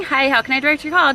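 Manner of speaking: rattled-off phone greeting. Retold or imitated. Her old office self on the hundredth call, rushed. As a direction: repeat it on autopilot, fast. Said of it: "me years ago working in office".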